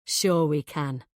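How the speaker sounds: slow, sneering reply; contemptuous drawl of disbelief. A narrator's reading. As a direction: sneer it out slowly. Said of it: "He sneers".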